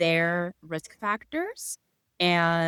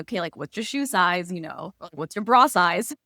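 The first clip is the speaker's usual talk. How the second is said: playful joking; 5 dB louder than usual. Retold or imitated. Doctor jokes with a scared patient, louder and playful. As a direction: lighten the mood with a playful jab. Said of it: "to kinda lighten the mood".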